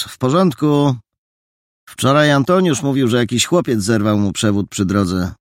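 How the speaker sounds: high, loud called-out report; calling from a distance. A narrator's reading. Man at the rubble reporting to his friend, calling out. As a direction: project it across to your companion. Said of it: "dał się słyszeć jego głos".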